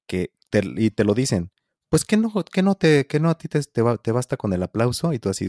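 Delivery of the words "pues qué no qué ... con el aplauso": high, scoffing voice of a dismissive person; mocking imitation. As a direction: parody someone belittling musicians. Mimicking people who undervalue musicians.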